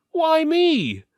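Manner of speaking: high, loud whiny "why me"; alarmed protest. Acted. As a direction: balk at being chosen, voice jumping up. Steward afraid to cross first.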